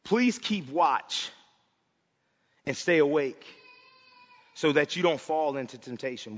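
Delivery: softly pleading disciples to keep watch; gentle urging. Acted. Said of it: "Jesus said".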